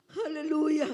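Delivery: loud, ringing hallelujah; joyful shout. Real, not acted. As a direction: shout the praise. Shouted praise.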